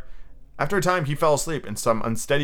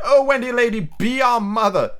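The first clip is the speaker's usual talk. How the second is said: high, louder begging plea; pleading cry; 9 semitones higher, 4 dB louder than usual. A narrator's reading. Lost boys on their knees begging Wendy, pleading cry. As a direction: beg her like kneeling children.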